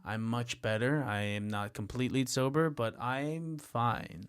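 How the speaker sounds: low, quiet, mock drunken voice. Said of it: "I'm so drunk right now".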